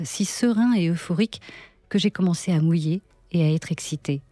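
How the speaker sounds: measured literary reading with pauses between phrases; unhurried first-person story narration; dramatic reading. Acted. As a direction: read the monologue as intimate storytelling, letting each line land. Reads an extract from the monologues.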